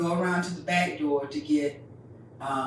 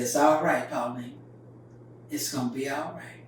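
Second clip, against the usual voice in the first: calm and easy; 3 semitones lower than usual. Retold or imitated. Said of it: "All calm and easy".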